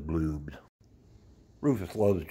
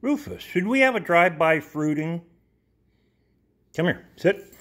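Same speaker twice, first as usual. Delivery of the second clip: squeaky praising a dog; 10 semitones higher, 3 dB louder than usual. Real, not acted. Talking to the dog.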